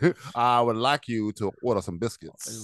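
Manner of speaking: mock Southern accent. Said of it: "talk like you're trying to open a Kentucky Fried Chicken".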